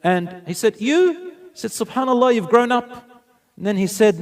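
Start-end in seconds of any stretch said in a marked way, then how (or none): 0.8-1.3 high, louder astonished "you"; amazed. Retold or imitated. Prophet astonished seeing the orphan girl grown, amazed. 1.7-2.9 higher, louder amazed praise; marveling. Retold or imitated. Prophet marveling at how the girl has grown, excited.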